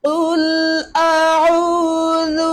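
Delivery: slow, drawn-out Quran recitation. Shown as a demonstration. Teacher recites slowly for the child to copy. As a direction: chant each word slowly and clearly.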